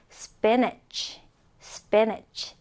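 careful "spinach", ending like "netch"; model pronunciation. Shown as a demonstration. Teacher modelling "spinach" for learners, careful pronunciation. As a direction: say "spinach" as a clear word to copy. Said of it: "자, 지금 잘 보면".

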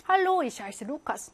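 German read out very slowly, word by word. Shown as a demonstration. Teacher reads a German example sentence slowly for students. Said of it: "이런 문장인데요".

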